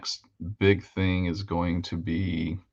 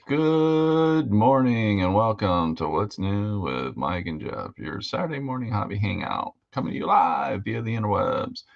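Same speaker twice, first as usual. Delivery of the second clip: announcer; 2 semitones higher than usual. Shown as a demonstration. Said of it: "I always do that".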